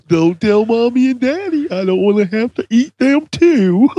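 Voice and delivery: high, creepy unhinged villain; sing-song menace toward a child; crazy voice. Acted. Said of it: "a crazy voice that just popped in my head".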